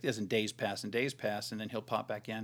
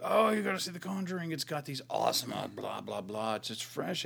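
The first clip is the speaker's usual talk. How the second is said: mock hype; 2 semitones higher than usual. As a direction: gush like an overhyped fan, then lose interest. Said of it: "they're like".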